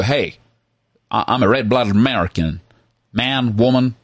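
put-on generic American accent. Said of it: "we can do a generic American accent".

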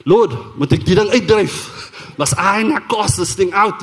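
slow, emphatic retold zeal; fired-up plea to God, drawn out. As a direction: ask eagerly, ready to do battle. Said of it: "I'm on fire and I'm saying".

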